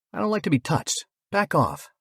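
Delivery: high, loud warning to back off; sharp warning. A narrator's reading. Narrator warns the approaching stranger, high and loud. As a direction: snap a warning, pitch way up. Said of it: "shot him a warning".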